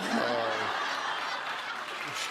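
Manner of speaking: brief real laugh at own quip; short chuckle. Real, not acted. Host laughing at his hooker joke, brief chuckle.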